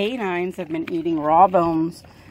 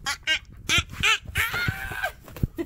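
climbing to a very high, soft ah; soft squeaky warning as the dog runs off; rising high ah ah; 5 dB quieter than usual. Real, not acted. Dog grabbing food.

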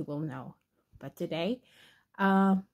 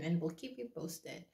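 whispering keep you posted, much softer; whispered; 5 semitones lower, 12 dB quieter than usual. Real, not acted. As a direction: hush it to a whisper. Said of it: "why are you whispering".

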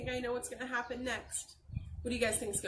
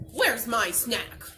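slow, louder angry yak; mad yelp; 7 dB louder, slower than usual. Acted. The yak missing his snack, a mild mad yelp. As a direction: yelp it out like a cross animal. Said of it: "One mad yak yelps".

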